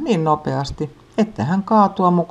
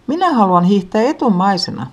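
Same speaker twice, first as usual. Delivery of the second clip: demanding; 5 semitones higher, 3 dB louder than usual. A narrator's reading. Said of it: "pikkusisko vaatii".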